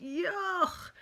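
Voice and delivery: loud disgusted yuck; shouted yuck. Acted. Parents shouting at dirty Bunny, disgusted. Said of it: "They shouted".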